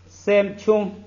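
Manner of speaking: 三穷 with 三 high and level; 三 kept flat and high in 三穷; sandhi demo. Shown as a demonstration. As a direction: read 三穷 with a level 三. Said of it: "第四个".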